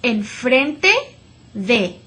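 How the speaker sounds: very slow, clear "enfrente de"; slow model Spanish. Shown as a demonstration. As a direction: say "enfrente de" slowly for the class to repeat.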